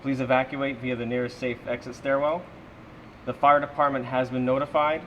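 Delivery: building security announcing over the PA; calm public address announcement; evacuation order. Shown as a demonstration. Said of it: "this is what happens".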